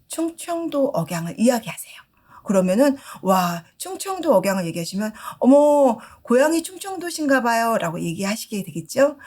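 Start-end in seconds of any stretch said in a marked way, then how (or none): 5.4-7.8 delighted surprise. Acted. Shop owner greets customer warmly.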